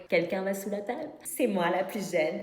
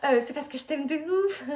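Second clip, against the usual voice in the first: mock crying; 7 semitones higher, 5 dB louder than usual. Declaration d'amour en pleurant.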